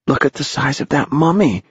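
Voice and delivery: put-on high-pitched boy's voice; lifted boyish voice; young Ralph. A narrator's reading. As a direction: pitch it up like an astonished boy. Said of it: "said Ralph".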